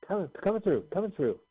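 high called-out push through the crowd; coming through shout. Retold or imitated. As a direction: call it out, making way for VIPs. Clearing a path through crowd.

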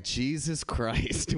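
slow, drawn-out sigh of a curse; exasperated fiance. Retold or imitated. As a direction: let it out slowly, fed up.

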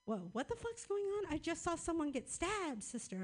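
high, rattled rush of words; a shaken sister blurting out what she saw; freaked-out sister. Retold or imitated. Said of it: "she was like".

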